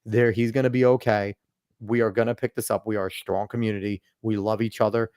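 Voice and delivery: reassuring neighbor. Retold or imitated. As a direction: reassure someone after a disaster. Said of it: "And they are saying".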